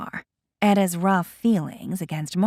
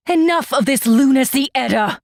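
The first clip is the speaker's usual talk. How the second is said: louder, fast, stern rebuke; cold and stern; 3 semitones higher, 5 dB louder, faster than usual. Acted. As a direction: cut her off, cold and stern. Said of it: "It is cold and stern".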